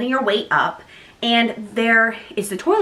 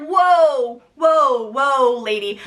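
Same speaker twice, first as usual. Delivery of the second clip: raised, drawn-out plea to hold on; mock alarm; 3 semitones higher, 3 dB louder, much slower than usual. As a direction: act out halting someone overeager. Retold alarm at eager midwife.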